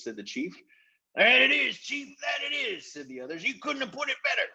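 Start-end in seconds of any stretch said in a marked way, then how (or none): 1.1-2.9 very high, excited chorus shouting agreement; eager chorus. A narrator's reading. 3.4-4.5 high, odd flattering voice, last words dragged out; butter up the chief in a squeaky fawning voice; fawning chorus. A narrator's reading.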